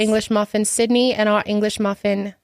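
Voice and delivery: formal mock-British introduction; put-on British accent. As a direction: introduce yourselves in fake British. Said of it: "You just gave up the accent".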